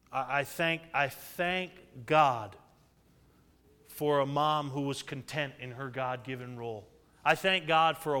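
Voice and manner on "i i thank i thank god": ordinary delivery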